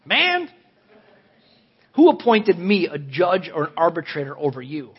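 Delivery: incredulous, pushing the man back; exasperated rebuke. Retold or imitated. Jesus rebuking the man who asks about inheritance, exasperated. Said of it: "I think he said it like that".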